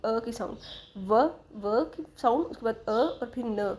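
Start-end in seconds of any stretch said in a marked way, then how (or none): 1.0-2.5 "व" as a lone consonant sound, drawn out slowly; teacher slowly isolating the sound "व"; isolated sound. Shown as a demonstration. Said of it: "इसको जब हम pronounce करें". 2.9-3.7 "अ" and "न" each sounded on its own; teacher isolating "अ" and "न" one after the other; separate sounds. Shown as a demonstration. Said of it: "तीन sounds हैं".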